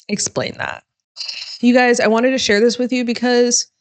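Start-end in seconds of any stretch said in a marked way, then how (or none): 0.1-0.8 low breathless aside, pitch dropped; voiceless, low aside demanding an answer; muttered challenge. Real, not acted. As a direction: drop to a whispered dare. Pointed challenge to viewers.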